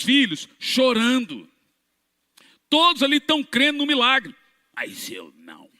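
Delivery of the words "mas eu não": low, soft grumble; sullen refusal. Retold or imitated. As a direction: mutter it stubbornly. Homem rebelde recusa. (recusa resmungada, grave e baixa)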